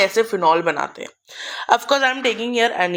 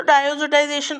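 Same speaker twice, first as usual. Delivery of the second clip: drawn-out term; 4 semitones higher, much slower than usual. Shown as a demonstration. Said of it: "इस process को क्या बोलते हैं?".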